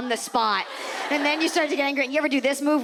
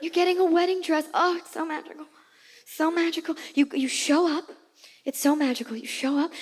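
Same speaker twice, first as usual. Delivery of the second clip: lightly pitched-up wistful sigh; dreamy mock gushing; 4 semitones higher than usual. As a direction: sell the fairy-tale dress moment, airy. Mock magical dress fantasy.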